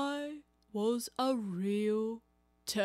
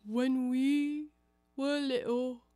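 tearful; 2 semitones higher than usual. Acted. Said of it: "more calmly, though still sobbing".

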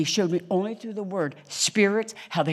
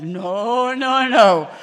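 emphatic denial; 5 semitones higher, 9 dB louder, much slower than usual. Retold or imitated. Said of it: "I'm like".

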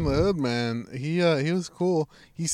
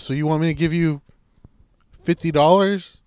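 incredulous question. Retold or imitated. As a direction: draw it out as a baffled question. Questions handing over fifty dollars.

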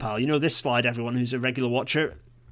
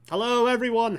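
sing-song hello; 10 semitones higher than usual. Acted. Greeting on face returning.

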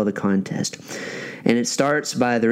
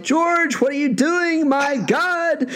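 hammed-up horror, pitched way up; imitated shocked mother; slower than usual. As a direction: imitate a scandalized mother walking in. Shocked mother catches son, retold.

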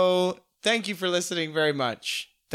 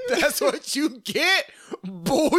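gloating; 9 semitones higher, slower than usual. Acted. Acted soldier quote.

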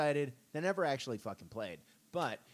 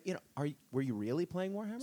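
put-on Australian accent; 5 semitones higher, faster than usual. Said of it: "was that your Australian accent".

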